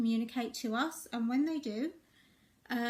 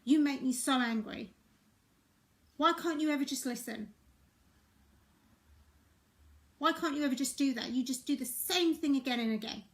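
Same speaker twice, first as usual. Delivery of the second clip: angry parent. Retold or imitated. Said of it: "I've said it to my child, like".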